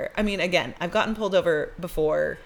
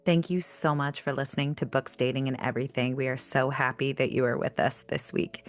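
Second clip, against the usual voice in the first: composed, lower scripted sign-off; podcast outro read; 3 semitones lower, 4 dB quieter than usual. Real, not acted. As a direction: thank listeners in a measured announcer read. Reads the show's closing message.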